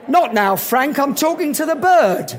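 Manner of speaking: dismissive Cockney brush-off; Cockney guy. Acted. Cockney waves away a famous singer before the girl, dismissive Cockney. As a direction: land the punchline in a light Cockney accent. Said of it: "And the guy goes".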